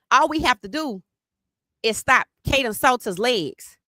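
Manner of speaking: a lightly voiced rival boast; quoting rivals. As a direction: say it as the smug rival. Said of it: "Then what they said was".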